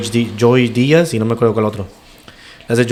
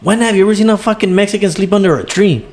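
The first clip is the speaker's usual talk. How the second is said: hammed-up outraged son, pitched high; indignant son; 8 semitones higher than usual. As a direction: squeal out the protest like a riled-up son.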